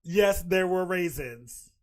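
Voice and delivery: drawn out, loud and slow; slow disbelief. Real, not acted. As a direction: let each word sink in slowly. Repeats the post in disbelief.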